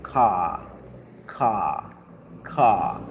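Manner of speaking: Ka with a long open A; ka with a long A sound. Shown as a demonstration. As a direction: stretch the vowel in Ka. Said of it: "vamos a pronunciarla la A larga".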